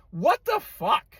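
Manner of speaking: real exasperated outburst; outraged. Real, not acted. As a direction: throw up your hands in disbelief. Rant peaks in outrage.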